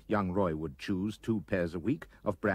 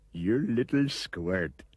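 slow start, creature voice with menace; menacing anteater; slower than usual. A narrator's reading. Anteater corners Roy in the shed, menacing. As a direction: relish the threat to the boy.

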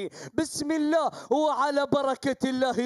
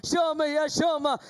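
urging shout. Real, not acted. Urging the falcon Shama on.

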